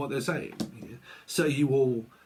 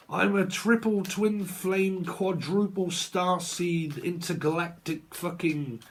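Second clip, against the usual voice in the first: slow, slightly raised mock boast; self-styled starseed; 3 semitones higher, slower than usual. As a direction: draw out the jargon in parody. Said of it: "hearing all of that jargon".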